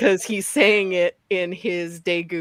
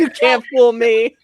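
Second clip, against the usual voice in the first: laughing tease; 3 semitones higher, 8 dB louder than usual. Real, not acted. Teasing quote, laughing.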